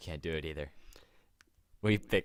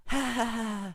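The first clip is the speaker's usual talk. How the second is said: high, imitated spooky laugh; creepy laugh. Grandmother imitating the laugh she heard, creepy. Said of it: "but creepy".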